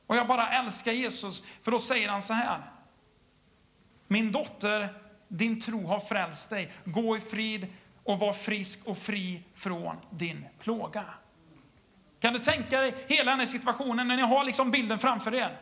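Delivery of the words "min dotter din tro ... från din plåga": slow, tender words of release; gentle blessing. Retold or imitated. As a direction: speak it like a father to a daughter. Jesus speaks to healed woman.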